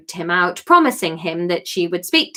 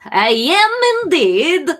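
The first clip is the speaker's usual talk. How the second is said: put-on slow Liverpudlian Greek accent, pitched higher; 7 semitones higher, 4 dB louder, slower than usual. The speaker greets Kate in a Liverpudlian Greek accent. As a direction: stretch it out in a stereotyped Scouse-Greek voice. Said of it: "let's go Liverpudlian Greek".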